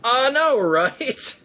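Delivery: high, gushing fan squeal; delighted high-voiced gush; excited agreement. Real, not acted. Gushing agreement about shared hero.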